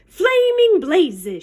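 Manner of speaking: drawn-out exclamation; slow pirate cry. Acted. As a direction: cry it out slowly. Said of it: "she cried".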